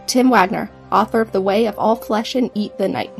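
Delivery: ordinary talk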